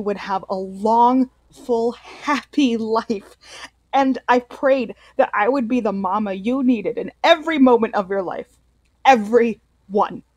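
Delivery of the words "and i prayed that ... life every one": rising louder with feeling; mother's confession building to a loud, emotional peak; emotional plea. Acted. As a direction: pour it out to your son, voice swelling. Mother's tearful confession to her son.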